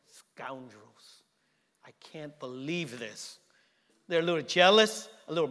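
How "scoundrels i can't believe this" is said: low, slow mock indignation; indignant disciples. Pastor voicing jealous disciples, slow low grumble. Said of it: "They're like".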